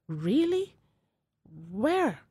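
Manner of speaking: high, incredulous imitation; mock surprise. Store lady hearing he is African, mock surprise. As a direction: imitate astonishment, pitch jumping up high.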